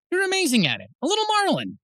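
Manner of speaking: high, lilting praise; proud dad. Acted. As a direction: gush fondly over your kid, pitch soaring. Dad praises son's swimming.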